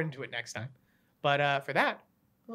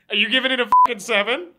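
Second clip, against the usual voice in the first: loud, high disbelief; can't believe the score; incredulous; 5 semitones higher, 11 dB louder than usual. Real, not acted. Outraged at ratings.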